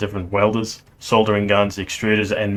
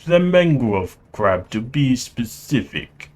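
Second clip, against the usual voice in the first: put-on Russian accent; slower than usual. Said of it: "I will try to do his accent".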